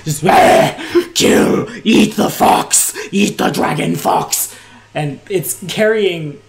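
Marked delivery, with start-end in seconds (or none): 0.2-4.5 harsh, loud monster roar, drawn out; screaming hobgoblin. Acted. Hobgoblin tearing off his helmet, savage roar. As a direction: roar it like a bloodthirsty goblin.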